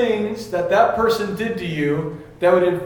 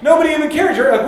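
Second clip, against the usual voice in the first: ordinary talk, nothing marked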